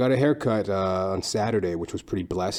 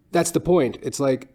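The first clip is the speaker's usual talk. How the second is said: normal talking voice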